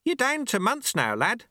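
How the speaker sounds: high-pitched amazed shout. Acted. Sweeper shouting progress to the lad, shouting. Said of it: "he shouted".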